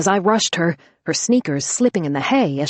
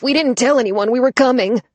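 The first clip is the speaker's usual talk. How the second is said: pleading; 7 semitones higher, 5 dB louder than usual. Acted. Frightened pleading.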